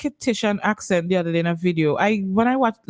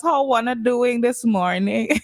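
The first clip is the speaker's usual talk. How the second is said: a light, slowed Bajan accent attempt, tentative; 2 semitones higher than usual. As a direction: ease into a Bajan greeting, half-sure of it. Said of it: "Let me say like the Bajans".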